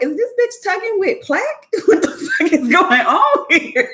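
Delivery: squeaky, outraged inner voice; high disbelieving inner thought; high-pitched disbelief. Retold or imitated. Inner thought at dentist tugging.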